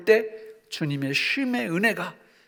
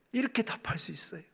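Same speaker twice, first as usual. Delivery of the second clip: ordinary talk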